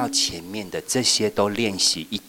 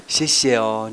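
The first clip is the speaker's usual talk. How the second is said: mock thanks; 2 semitones higher, 5 dB louder, slower than usual. Shown as a demonstration. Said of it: "然后我就说".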